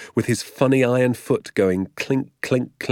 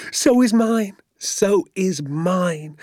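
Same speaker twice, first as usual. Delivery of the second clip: high, excited agreement, slowing on the repeat; breathless elation; 10 semitones higher, much slower than usual. A narrator's reading. Father sharing his son's thrill, breathless elation. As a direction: agree high and giddy, then stretch it out. Father elated, heart thumping.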